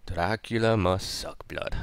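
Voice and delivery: a lightly put-on, hammed-up vampire accent; terrible Dracula accent. Shown as a demonstration. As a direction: do a bad Dracula accent, half-joking. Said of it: "That's a terrible accent".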